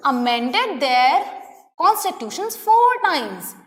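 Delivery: very slow, word by word, for students to write; slow dictation. Real, not acted. Teacher dictating a note to her students, very slow and deliberate. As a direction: spell it out slowly so they can copy.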